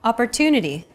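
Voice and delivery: Opportunity with TU stressed and held longer. Shown as a demonstration. Teacher comparing English rhythm with Arabic, stress on TU. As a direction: lengthen the tu in Opportunity, others short. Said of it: "stressed syllable to in opportunity".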